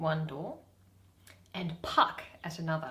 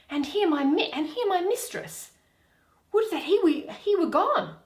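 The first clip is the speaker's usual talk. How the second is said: fairy; 12 semitones higher, 9 dB louder than usual. Acted. Reading the Fairy's worried lines.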